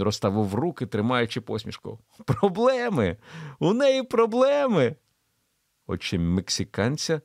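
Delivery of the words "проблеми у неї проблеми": high, slow insistence on her problems; oily persuasive insistence; insisting. A narrator's reading. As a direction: stress that she has problems. Pickering explains to Mexican.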